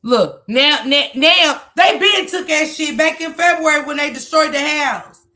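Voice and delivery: loud, indignant shouting at the call; angry shout. Real, not acted. Viewer yelling angrily at the people on the call. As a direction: let it blow up, yelling.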